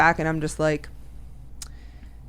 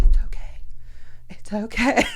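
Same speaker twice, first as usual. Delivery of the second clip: soothing; 4 semitones higher than usual. Retold or imitated. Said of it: "she's like".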